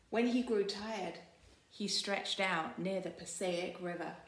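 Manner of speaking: put-on storybook read-aloud for kids; story narration. Librarian reading the picture book to children, storytelling voice. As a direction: read it warmly to a class of children.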